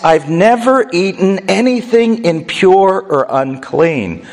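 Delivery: acted insistence on a clean record; emphatic denial. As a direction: protest firmly, drawing the words out. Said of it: "Peter says emphatically no".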